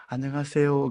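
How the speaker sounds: soft, courteous hello; very polite greeting. Retold or imitated. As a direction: greet with deference. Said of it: "굉장히 공손하게 막 인사를 하고". (공손한 인사말투)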